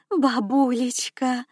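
slow delighted exclamation; gasping delight. A narrator's reading. Granddaughter gasps at the promised gift, delighted. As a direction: gasp her name in joy. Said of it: "ахнула Ирина".

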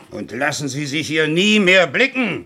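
slow, loud, furious order to leave; angry dismissal. Acted. Suspect orders the inspector out, slow and furious. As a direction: hammer each word out.

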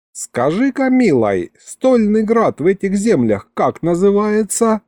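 put-on old grandpa coaxing, pitched high; дед. A narrator's reading. Дед расспрашивает коробочку. (дед вкрадчиво, высоким голосом)

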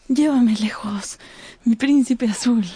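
dreamy, loving request; tender plea. Acted. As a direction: beg him gently to take her away. Sybil pleads to her lover.

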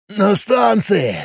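slow, strained grunt. Acted. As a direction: squeeze it out as if pinned. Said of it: "прокряхтел Боб".

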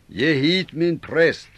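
mycket hög, högljudd och långsam rop; ropande krav. Acted. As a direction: ropa ner från bäcken, kräv. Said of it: "en stark röst ropa ner". (rop: ge hit min präst)

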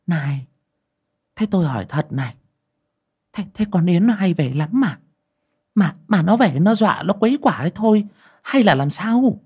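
put-on high old woman pressing questions; prying old aunt. A narrator's reading. Aunt questioning Mrs Nối about Yến, high and pressing. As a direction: press her for the truth, quick and high.

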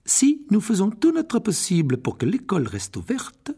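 voix aiguë de professeure stricte; professeure sévère. Acted. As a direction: sermonner la classe avec fermeté. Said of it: "en fronçant les sourcils". (professeure sévère)

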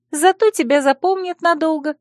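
high-pitched, smiling consolation; smiling reply. A narrator's reading. Friend consoles the heroine about her reputation, smiling. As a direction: say it lightly through a smile. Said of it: "улыбнулась Царья".

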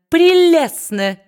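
shrieked slow gush of flattery; gushing squeak. A narrator's reading. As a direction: stretch it into a fawning squeal. Brass flatters Quilp.

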